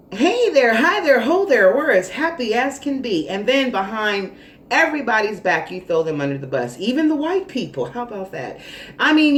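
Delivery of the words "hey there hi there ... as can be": sing-song fake cheer, higher and louder; mock sweet greeting. Frenemy greeting coworkers with fake cheer. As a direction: put on a phony friendly face.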